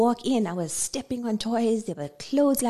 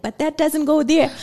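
nagging mom; 7 semitones higher, 6 dB louder than usual. Retold or imitated. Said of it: "I'm like".

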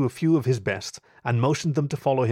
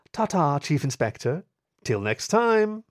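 lilting, much higher playful goodbye; teasing farewell; 4 semitones higher, slower than usual. Acted. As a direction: wave him off mockingly. Thief bids teasing farewell.

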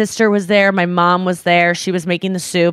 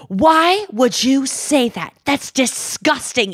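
imitating mom; 6 semitones higher, slower than usual. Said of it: "I heard my mom going".

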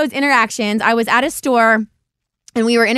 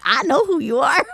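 laughing quote; 2 semitones higher than usual. Retold or imitated. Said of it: "He's like".

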